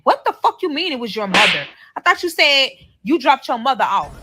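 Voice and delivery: retold disbelief, pushing back; incredulous challenge. Girlfriend questions boyfriend's mother excuse, incredulous. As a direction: confront him, not buying his story. Acted confrontation over his changed story.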